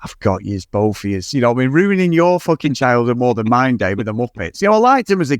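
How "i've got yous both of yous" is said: gloating Blake. Retold or imitated.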